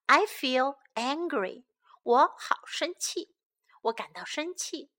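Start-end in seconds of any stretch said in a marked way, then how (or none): 2.0-4.9 whisper. Shown as a demonstration. Drill line translated in a whisper.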